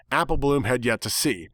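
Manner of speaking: ordinary delivery, nothing marked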